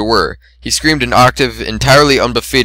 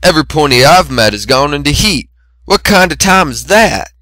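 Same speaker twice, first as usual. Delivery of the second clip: snarling; 5 semitones higher, 3 dB louder than usual. Acted. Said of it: "Macintosh snarled".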